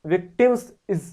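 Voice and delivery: विक्टिम्स followed by a separate "iz"; added s syllable. Shown as a demonstration. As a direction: break off the extra इज after विक्टिम्स. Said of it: "एक एस और बोलना है".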